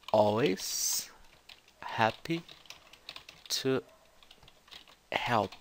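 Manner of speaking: "always happy to help" split into slow separate words. Shown as a demonstration. Teacher showing students the expected word-by-word version. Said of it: "ela faz um chunk gigante".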